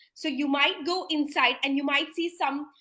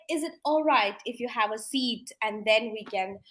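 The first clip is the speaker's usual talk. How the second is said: gentle offer to sit; 2 semitones lower than usual. Shown as a demonstration.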